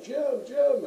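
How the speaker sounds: high, loud call across the street; retold shout to a friend far off; retold yelling. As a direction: yell his name to get his attention. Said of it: "I'm yelling at him".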